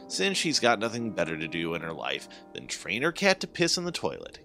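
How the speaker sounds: ordinary delivery, nothing marked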